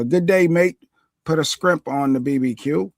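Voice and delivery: lightly put-on Australian accent; a playful stab at an Australian accent. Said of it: "where did this accent come from".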